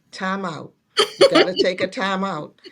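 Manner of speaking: half-laughing, stop him in his tracks; laughing command. Retold or imitated. Wife laughing as she tells husband to stop.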